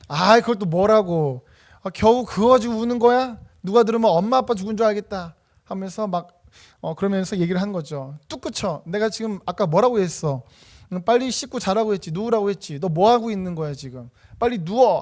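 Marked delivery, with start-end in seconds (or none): 0.1-5.3 put-on louder, irritated scolding of a crying child; scolding parent. Suppressing parent scolds crying child over goldfish, irritated and loud. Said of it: "억압을 합니다". 8.3-15.0 bossy mock parent ordering the child to bed; stern scolding. Parent orders crying child to stop and sleep, stern. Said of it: "억압을 이렇게 쫙 밀어붙이는 거죠".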